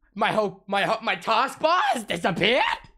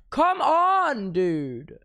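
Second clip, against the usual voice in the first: frustrated shout at the screen; exasperated come on; 4 semitones higher, much slower than usual. Real, not acted. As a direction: beg the computer to work. Frustrated pleading at broken tech.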